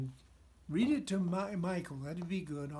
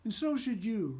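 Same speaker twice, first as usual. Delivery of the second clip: counseling. Acted. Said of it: "Rusty counseled".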